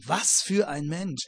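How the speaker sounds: admiring. Shown as a demonstration. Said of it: "im Sinne von Bewunderung".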